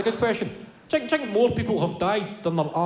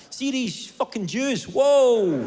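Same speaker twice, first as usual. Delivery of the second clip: higher, slow mock rant ending in a whoa; mock Hitler rant; 6 semitones higher, 3 dB louder, much slower than usual. Comedian voicing Hitler ranting to his drinking mates, hammed-up. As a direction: ham up a bitter young man's outburst.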